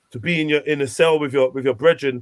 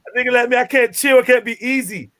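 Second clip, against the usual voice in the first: higher mock American accent; 6 semitones higher than usual. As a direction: keep the American accent going, defiant. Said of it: "Was that an American accent".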